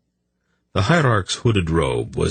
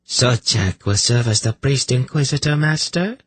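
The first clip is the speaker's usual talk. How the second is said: assured, higher-pitched priestess voice; fully in charge; 7 semitones higher than usual. A narrator's reading. Priestess naming the inquisitor to her master, fully in charge. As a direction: announce it as the one in charge. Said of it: "in the tone of one who feels fully in charge".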